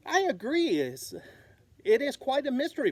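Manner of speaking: high, fast, bright chirp. Acted. Bird agreeing about the mystery, chirping fast. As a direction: chirp it quickly. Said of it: "Flap chirped".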